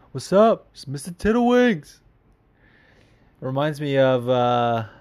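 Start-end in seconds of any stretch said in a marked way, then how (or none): 0.1-2.0 higher, imitating the caller's intro; imitating Mister Tiddlewinks. Host mimics how the caller says his name, pitched up. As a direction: copy the caller's sing-song name intro. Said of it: "I love the way he says his name".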